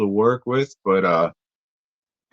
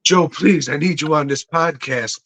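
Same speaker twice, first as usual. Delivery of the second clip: higher-pitched joking plea; mock pleading; 5 semitones higher than usual. Host teasing co-host about joining the podcast, mock pleading. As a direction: beg playfully, leaning on the please.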